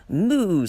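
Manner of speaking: cow moo. Acted. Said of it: "said Cow".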